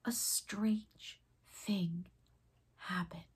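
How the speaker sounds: slow hushed whisper; mysterious whisper. A narrator's reading. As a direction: draw the child in with a slow whisper. Magic moment begins.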